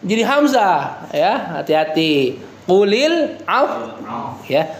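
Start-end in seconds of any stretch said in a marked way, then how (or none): 2.7-3.9 Qulil af- with lips pushed forward, slow; lips pursed. Shown as a demonstration. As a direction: round the lips into a pout on af-. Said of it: "kasih isyarat monyong ya".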